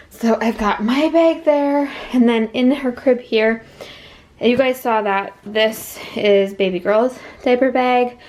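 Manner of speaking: talking while out of breath; breathless, catching air between words. Real, not acted. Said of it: "Sorry, I'm so out of breath".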